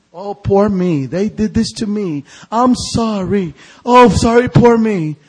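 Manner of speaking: lightly whiny mock pity party; mock self-pity. Preacher mocking the congregation's pity party, lightly whiny. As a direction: mimic a sulking victim, a touch whiny. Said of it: "a little pity party".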